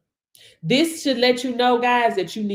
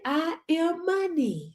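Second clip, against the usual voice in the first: slow, soft, higher affirmation; 5 semitones higher, 6 dB quieter, slower than usual. Shown as a demonstration. Coaching viewers to say it, slow soft declaration. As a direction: savour each word slowly. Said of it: "Can you say it?".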